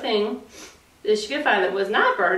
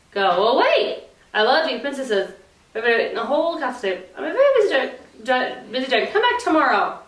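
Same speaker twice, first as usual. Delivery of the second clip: dragon voice; 3 semitones higher than usual. Acted.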